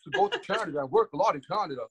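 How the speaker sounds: lightly hammed-up Canadian accent. Wrestler showing hosts he can pull it, mock Canadian accent. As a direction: joke along in a put-on Canadian accent. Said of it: "I can speak like I'm Canadian".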